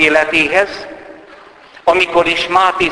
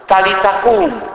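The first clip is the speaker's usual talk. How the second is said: high, louder call to wake the dead; commanding call; 8 semitones higher, 4 dB louder than usual. Retold or imitated. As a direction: call her up from death with authority. Jesus raising the dead girl. (emelt hangú, parancsoló kiáltás)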